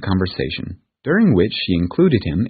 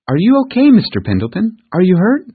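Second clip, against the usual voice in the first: put-on high, anxious child calling out; worried girl; 12 semitones higher, 6 dB louder than usual. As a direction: rush to him, alarmed and high. Girl finds injured man.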